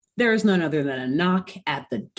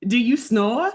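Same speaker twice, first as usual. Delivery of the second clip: snake oil seller; 5 semitones higher than usual. Acted. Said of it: "I'm just gonna keep impersonating".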